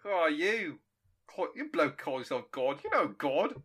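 hammed-up Aussie bloke; stereotypical Australian accent. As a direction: put on a broad Australian voice. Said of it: "very stereotypical Australian voice".

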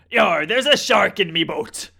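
a stunned fisherman's growl, Australian; Australian accent. Retold or imitated. Fisherman spotting the shark in his boat, in a hammed-up Australian accent. Fisherman quoted, same put-on voice.

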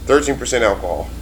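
slightly slurred, tipsy speech; words running together after wine; slurring. Real, not acted. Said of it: "No wonder you're slurring right now".

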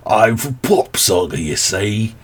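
badly faked British accent; failed British accent. Shown as a demonstration. Podcaster attempting a British accent that doesn't work, botched British. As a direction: have a clumsy go at British. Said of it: "doesn't work".

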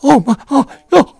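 put-on high, loud gasping "oh my, oh" of a horrified old woman; shocked old lady. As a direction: imitate the old lady panicking at the sight of blood. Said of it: "She just looks down and goes".

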